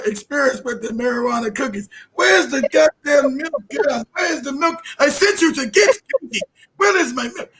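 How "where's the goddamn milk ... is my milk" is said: imitating a mom yelling, higher; mock angry mom. Mom yelling at Katie about the milk, mock angry. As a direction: mom scolding her daughter over the milk, shouting.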